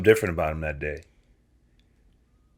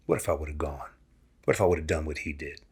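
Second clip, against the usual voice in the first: soft musing; 4 semitones lower, 9 dB quieter, faster than usual. Retold or imitated. Dad voicing John's thoughts.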